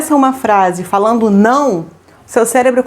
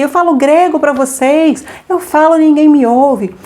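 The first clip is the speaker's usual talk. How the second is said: exasperated mom; 4 semitones higher, slower than usual. Retold or imitated. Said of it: "as mães falarem assim".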